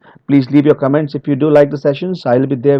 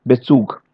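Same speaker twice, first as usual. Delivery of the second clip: "Bezug" with a light, quick BE; unstressed prefix; 3 semitones lower, 3 dB quieter than usual. Shown as a demonstration. Trainer showing a prefix that is never stressed, unstressed prefix. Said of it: "No stress anywhere".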